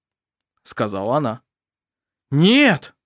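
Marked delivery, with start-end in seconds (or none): 2.3-2.9 high, loud cry of no; outcry. A narrator's reading. Family crying out against her agreement, loud. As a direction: shout it in horror. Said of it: "крикнули её родные".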